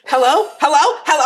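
mock shout down a bad line; shouting into phone. She answers on the car Bluetooth, mild retold shouting. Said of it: "I'm, like, shouting into".

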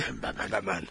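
low growled Batman voice, laughing through it; growling Batman. Retold or imitated. Cohost mocks Batman by growling his catchphrase. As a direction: growl the line like a gravelly-voiced vigilante, half laughing. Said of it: "wonder if he growls when he says it".

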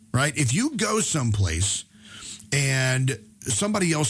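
lightly hammed-up condescending husband; mansplaining voice. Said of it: "did it in my best mansplaining voice I could put on".

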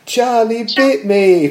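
slow, laughing viral-video quote. Retold or imitated. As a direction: giggle through the famous line.

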